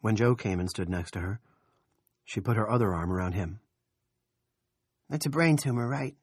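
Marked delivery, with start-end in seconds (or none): 5.1-6.1 put-on child's voice. A narrator's reading. Nori, the child, asking.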